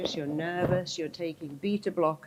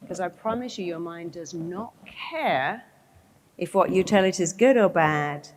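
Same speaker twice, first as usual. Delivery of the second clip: ordinary talk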